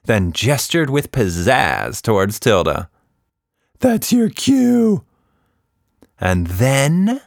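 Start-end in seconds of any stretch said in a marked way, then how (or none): 3.8-5.0 slow, high theatrical cue; high showman prompt. A narrator's reading. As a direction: prompt her with flourish. Quatch Monster prompts.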